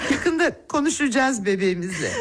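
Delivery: tearful laughing voice; laughing through tears. Acted. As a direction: laugh and cry at once. (gözyaşları içinde gülerek)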